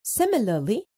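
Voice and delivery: ordinary talk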